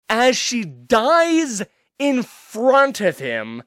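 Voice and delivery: high, slow and near tears; choked up. Real, not acted. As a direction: fight back tears as you tell it. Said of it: "I'm almost getting choked up talking about it".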